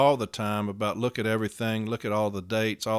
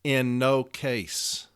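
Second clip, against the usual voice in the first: langsam und gedehnt, jedes Wort einzeln; slow, deliberate; much slower than usual. Shown as a demonstration. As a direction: spell out In no case, word by word. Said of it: "the first three words of sixteen eight are what?".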